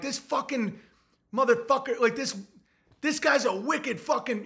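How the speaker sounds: high-pitched hometown cussing demo; mock fired-up swearing. Shown as a demonstration. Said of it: "when I get fired up".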